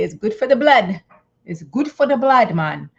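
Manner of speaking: a playful, half-hearted Jamaican parent voice; terrible Jamaican accent. Retold or imitated. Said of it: "that's a terrible Jamaican accent".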